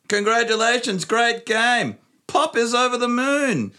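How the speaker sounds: put-on high, slow old lady voice; nana voice. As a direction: read it like a sweet grandma. Reading Nana's message aloud.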